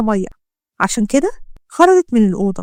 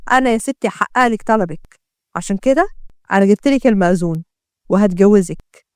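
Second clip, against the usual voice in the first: lower, knowing menace; suspicious gangster; 3 semitones lower than usual. Acted. Gangster taunts the doctor about the police, lower and menacing. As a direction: taunt her with what she saw. Ahmed announces forced marriage.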